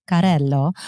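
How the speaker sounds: Carrello with rolled Italian r; Italian accent. Shown as a demonstration. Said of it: "I give it a little Italian accent to it".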